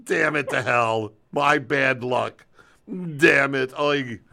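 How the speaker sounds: cursing cat, venting its bad luck; grumpy cat voice. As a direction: grumble like a fed-up three-legged cat. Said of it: "I'm gonna do a quick impression of Al-, of Ollie inside its little cat head".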